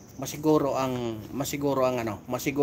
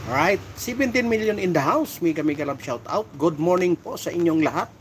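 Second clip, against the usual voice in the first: higher and louder, like a host's opener; hype announcer call; 5 semitones higher, 5 dB louder than usual. Real, not acted. Vlogger hypes his live viewers, loud and high announcer call. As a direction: pump up the live crowd.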